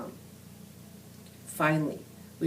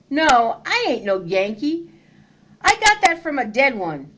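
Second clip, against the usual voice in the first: higher, hurried nervous denial; sputtered; 7 semitones higher, 5 dB louder than usual. A narrator's reading. Captured boy lying to Confederates, nervous sputter. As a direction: scramble to convince them. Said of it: "I sputtered".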